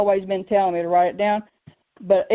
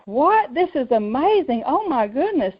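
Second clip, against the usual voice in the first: retold wide-eyed amazement, pitched up; amazed reaction; 4 semitones higher than usual. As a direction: act out an impressed listener's gasping reaction.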